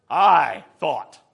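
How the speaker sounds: loud, indignant punch on the first word; wrathful emphasis. Acted. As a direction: say it affronted, falling hard. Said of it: "watch what he says in wrath".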